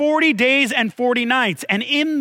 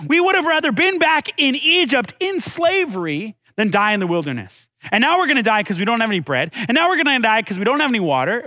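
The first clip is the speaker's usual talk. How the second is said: complaining; 2 semitones higher, faster than usual. Acted. Israelites whining to Moses about bread and water, complaining. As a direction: imitate grumblers, speeding through the grievances. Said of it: "hear the Israelites complain".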